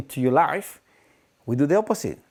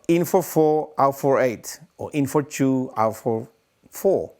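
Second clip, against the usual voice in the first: slow breathing count; slower than usual. Shown as a demonstration. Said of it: "counting breath demo".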